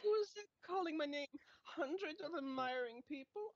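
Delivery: a hint of a preening German; part-German vain voice. Narcissist hearing admirers, in a light German accent. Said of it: "like, part German now".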